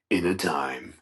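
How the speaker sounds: lightly deepened trailer voice; hint of a deep promo narrator; movie announcer. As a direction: intone it like a film trailer. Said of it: "It's like that, that deep voice".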